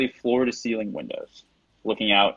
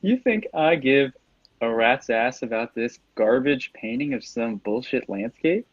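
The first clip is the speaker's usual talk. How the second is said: slow, drawn-out villain sneer; contemptuous villain, starting high; snickering villain; 3 semitones higher than usual. Acted. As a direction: sneer at the painting, taking your time. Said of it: "he, he snickers".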